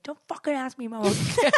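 retold annoyance. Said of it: "like, really angry".

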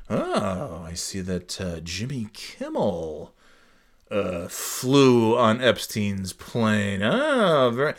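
soft, slow mock insinuation; mocking Rodgers. Mocking Rodgers hinting about Kimmel, soft and slow. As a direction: sneer his coy hint back at him. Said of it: "this dickhead Rogers was even speculating".

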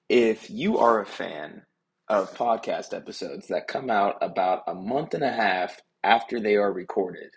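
echoey room sound; recorded in an echoey office; echoing tunnel. Real, not acted. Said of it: "why do you sound like you're in a tunnel".

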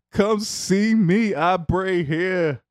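put-on slow, drawn-out girly voice; lightly played girl, stretched words; man doing a woman's voice. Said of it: "my girl voice is horrible".

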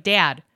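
"dad" in a natural Michigan accent; Midwest pronunciation. Shown as a demonstration. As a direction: say "dad" with a drawn-out nasal Midwest a. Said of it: "if I'm saying mom and dad".

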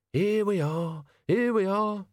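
put-on grumbling old servant. A narrator's reading. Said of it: "said Albert".

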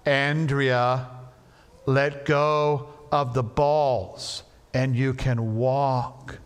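slow and firm; firmer. Retold or imitated. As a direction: lay down the law, slowly. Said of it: "a little bit firmer".

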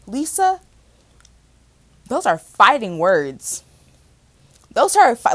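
lightly hammed-up wounded protest; playing up being hurt, half-joking; mock offended. To her therapist Lisa, a mock offended protest. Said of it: "I am doing a reenactment".

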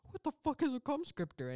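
high-pitched baffled question; mock bewilderment. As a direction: squeak it out in confusion. Cranston's baffled reply acted out.

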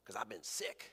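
barely bother to answer; weak mouse. Acted. Tiny field mouse answers lion.

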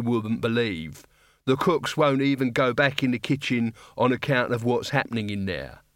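a condescending guard looking down on students; gruff guard captain. Acted. Guard captain mocking the wizards' wreckage as student pranks.

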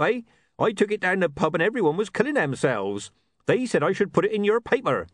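a chuckling local with a joke; cheeky small man. A narrator's reading.

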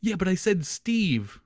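high, slow, half laughing admission; sheepish confession. Retold or imitated. Student confessing his slip to the teacher, half laughing. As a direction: own up while fighting a laugh.

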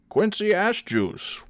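high, slow, stretched shout; shouting the name. A narrator's reading. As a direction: call out his old friend's name. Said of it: "Winthrop shouted".

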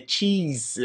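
"cheese" said softly as in English; English pronunciation. Shown as a demonstration. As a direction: say "cheese" softly, sounding like the letter X. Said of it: "pela forma de pronunciar".

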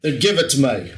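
a light stab at a Cockney accent; understated Cockney accent on the demand. Shown as a demonstration. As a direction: give it a touch of London Cockney. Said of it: "like a Cockney kinda".

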